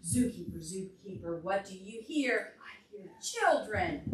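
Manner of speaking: singsong refrain, a bit slow; storybook chant; reading to children. Acted. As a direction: chant the book's refrain for toddlers. Reads picture book to children.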